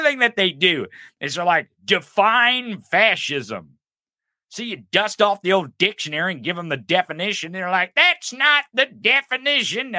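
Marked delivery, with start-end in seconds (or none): 1.8-3.8 mocking demand. Mocking right-wingers' demand. 7.9-10.0 mocking whine. Mocking right-wingers' reply.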